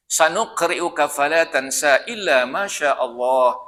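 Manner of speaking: slow chanted Arabic recitation; Quranic recitation. Acted. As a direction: intone the verse slowly, chanting. Recites verse.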